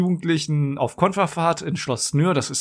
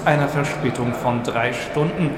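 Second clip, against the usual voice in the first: lightly played station announcer voice; train station announcement. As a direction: read it like a platform announcement. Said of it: "Ich mache einmal ganz kurz so eine Bahnhofsdurchsage".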